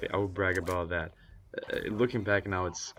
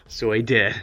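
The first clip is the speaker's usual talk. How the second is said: louder playful repeat breaking into laughter; weird-sounding, laughing; 7 dB louder than usual. Pretend. Storyteller pokes fun at his own confession, laughing odd delivery. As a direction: say it with odd emphasis, then laugh. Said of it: "That sounded weird".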